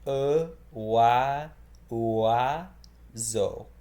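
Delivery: "E, wa, ua, zo" spelled out slowly, each piece apart; careful sound-by-sound breakdown; syllable by syllable. Shown as a demonstration. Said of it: "in order to say it, you say".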